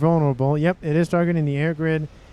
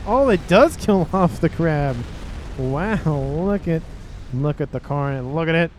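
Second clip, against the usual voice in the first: louder, punchy game-caster excitement; excited commentary; 5 dB louder than usual. Real, not acted. Caster showing viewers the dead crab carnage, excited. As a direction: revel in the wreckage as it happens.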